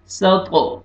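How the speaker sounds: सत with a heavy final t that echoes; qalqala bounce. Shown as a demonstration. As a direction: bounce the thick t closing सत. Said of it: "double sound आएगा". (सत की तौ पर double sound)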